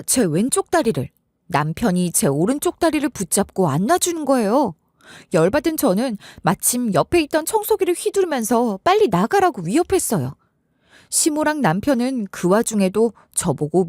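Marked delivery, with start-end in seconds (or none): none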